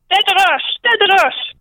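high-pitched, irate creature cry; angry creature cough. Acted. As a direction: cough the word out high and cross. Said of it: "toussa colériquement la créature". (cri aigu de créature en colère)

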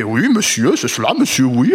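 lightly put-on Poirot-style French accent, comic; a hint of a hammed-up French accent in English films; mocking a stage French accent. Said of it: "un croisement entre, euh, Peter Sellers".

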